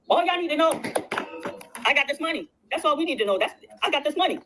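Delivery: getting carried away with excitement; excited. Real, not acted. Telling the family about the money, real excitement. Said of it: "I'm getting excited".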